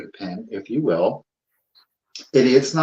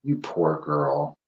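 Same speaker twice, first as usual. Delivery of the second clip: pitying doll voice; 7 semitones lower, 6 dB quieter, slower than usual. Acted.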